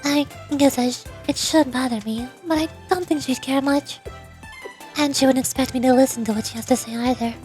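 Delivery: softly measured, lightly voiced leader; understated reserve with small hesitations; composed, guarded president. President discussing Rumi with Sensei, guarded composure. President speaks of her rival.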